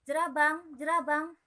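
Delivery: high, loud calling of a name. Acted. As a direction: call through the door. Lalang calling at the door.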